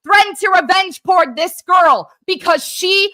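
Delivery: real fury at her former friend; furious yelling. Real, not acted. Screaming accusations at CJ.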